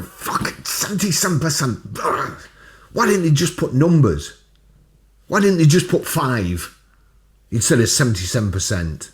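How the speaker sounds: high, mocking preacher voice; evangelist impression. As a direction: whine it like an outraged EV evangelist. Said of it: "Did you like the impression of an evangelist?".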